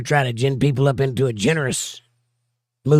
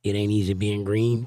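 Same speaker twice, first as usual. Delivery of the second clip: Kermit the Frog; 3 semitones lower than usual. Retold or imitated. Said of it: "Kermit the Frog".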